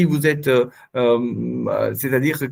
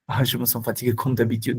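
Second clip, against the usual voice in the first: quick, weary sarcastic complaint with a scoffing ah; sarcastic sigh; 4 semitones lower, 4 dB quieter, faster than usual. Shown as a demonstration. Teacher showing a parent a sarcastic complaint to a child. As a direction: say it as a tired dig, quicker and softer. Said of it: "Dès que vous mettez ça comme d'habitude, tout change".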